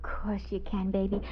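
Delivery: breathy hushed whisper. Acted. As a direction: whisper it so no one hears. Secret embrace, intruder hiding nearby.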